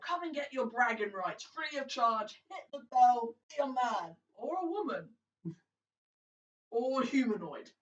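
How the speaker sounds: a hammed-up fairground barker calling the crowd; barker yelling. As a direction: sell the bell game to passers-by, big and showy.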